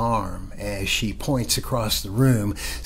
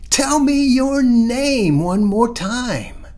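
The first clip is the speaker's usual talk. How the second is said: high, loud and slow call; 9 dB louder, slower than usual. Acted. Mother calls her son back down the hall, high and loud. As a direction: draw it out, calling down the hall. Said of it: "he hears his mama call".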